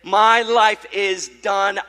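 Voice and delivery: loud, slow mock despair; hammed-up lament, slow and loud; dramatized doom. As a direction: draw out each word as if all is lost. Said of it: "all these thoughts swirling in my head".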